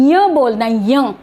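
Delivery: य said as a nasal nya; correct pronunciation. Shown as a demonstration. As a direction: model य with the sound through the nose. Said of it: "गलत उच्चारण किया जाता है".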